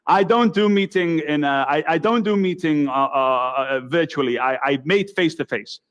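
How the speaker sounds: mock Russian accent, broken English; a deliberately bad Russian accent. Imitating the Russian visitor in a bad Russian accent. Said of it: "this is my very bad Russian accent".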